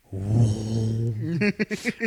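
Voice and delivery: long drawn-out "whooo"; rising whoosh made with the voice; imitated sinking whoosh. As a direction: mimic being swallowed by a couch. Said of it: "it just goes".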